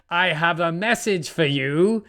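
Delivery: slow, lightly voiced ominous messenger; weird voice. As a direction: draw it out slowly, a little eerily. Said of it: "In a weird voice".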